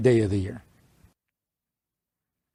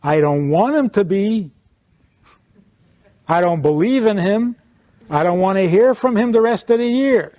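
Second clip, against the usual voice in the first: voicing the reluctant Jew; 5 semitones higher, 4 dB louder than usual. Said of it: "basically stating to the whole world".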